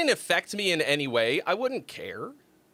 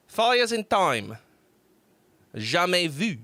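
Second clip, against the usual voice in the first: put-on French accent; slower than usual. Announces song, keeps French accent.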